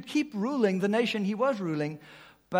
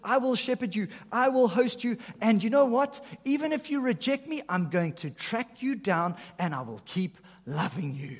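bold promise; 5 semitones higher, 3 dB louder than usual. Retold or imitated. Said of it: "This shepherd host says".

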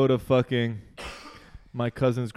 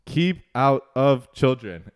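slow reading aloud; 5 dB louder, slower than usual. Retold or imitated. Cousin reads warning off the box.

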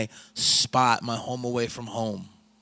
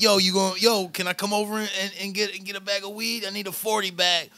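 lightly higher-pitched eager caller; mock weed buyer; 6 semitones higher than usual. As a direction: put on a buyer asking to come over. Acting out a weed buyer's call.

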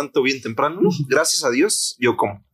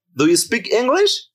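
English-speaking foreigner; 9 semitones higher, slower than usual. Retold or imitated. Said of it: "me dice".

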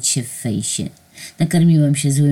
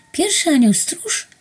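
much higher, disbelieving question; incredulous. A narrator's reading. Narrator doubting her angel was first. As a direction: ask as if it can't be true. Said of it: "Ramiona same podniosły mi się w niedowierzaniu".

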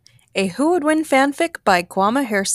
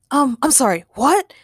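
baffled; 4 semitones higher, 4 dB louder than usual. Acted. Ray baffled by pig.

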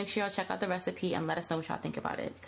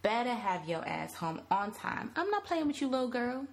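emphatic scolding mother. Acted. Mother warning Yolanda to come home on time, stern scolding. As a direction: scold your daughter like you mean it. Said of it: "Yolanda's mother was emphatic".

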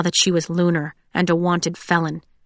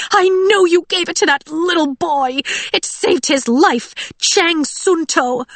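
screaming; 10 semitones higher, 4 dB louder than usual. A narrator's reading. Audrey screaming accusations at Cinder. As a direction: spit the name like poison. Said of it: "Audrey was screaming now".

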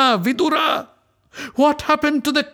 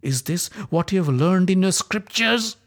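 much higher, louder accusing cries; furious rebuke; 10 semitones higher, 4 dB louder than usual. Acted. Draupadi rebuking the silent Kuru elders, high and furious.

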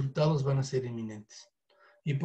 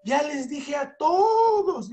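mock whine; 9 semitones higher, 4 dB louder, much slower than usual. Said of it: "Mucha gente dice".

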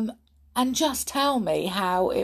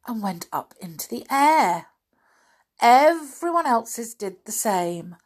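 suspenseful, slightly raised narration; children's story reading; 5 semitones higher, 4 dB louder than usual. A narrator's reading. Reader tells children the swings break loose, suspenseful storytelling. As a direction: stretch it out for suspense.

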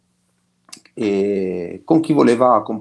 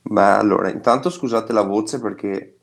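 hoarse voice. Real, not acted. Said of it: "la voce è molto rauca in questo momento".

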